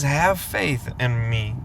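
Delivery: slow, low, calm divine voice; a hint of a gentle heavenly voice; God's voice. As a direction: speak it slowly like God lifting you up. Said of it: "something says".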